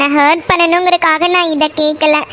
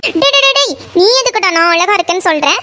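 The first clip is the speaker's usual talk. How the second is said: outraged; 2 semitones higher, faster than usual. Acted. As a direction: cut him off in outrage. Outraged at compliment.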